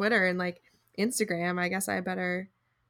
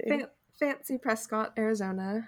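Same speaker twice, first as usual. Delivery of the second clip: playfully put-on fancy pronunciation, softer; teasingly over-enunciated place name; mock fancy; 2 semitones higher, 3 dB quieter than usual. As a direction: say it as if it were terribly fancy. Mock-posh echo of "not that fancy.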